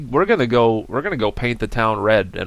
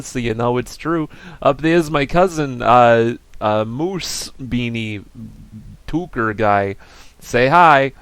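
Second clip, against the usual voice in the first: Beanie puppet voice; 3 semitones higher, 4 dB louder than usual. Pretend. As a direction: voice a goofy plush toy. Voicing Beanie puppet for BRB.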